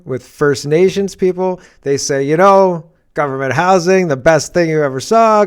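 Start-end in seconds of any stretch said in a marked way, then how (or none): 2.2-5.5 louder mock praise; sarcastic quote. Host mimicking praise of government housing, sarcastic. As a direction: rave about it, dripping sarcasm. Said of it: "Government, I'm being sarcastic".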